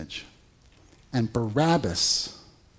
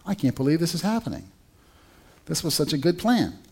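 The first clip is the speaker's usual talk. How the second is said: incredulous; 4 semitones higher, faster than usual. Retold or imitated. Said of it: "Pilate's, like, incredulous here".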